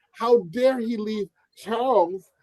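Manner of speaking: slow, indignant mocking of the press; hammed-up how-dare-he outrage. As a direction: parody the tabloid gasp, drawn out. Mocking the British media outrage.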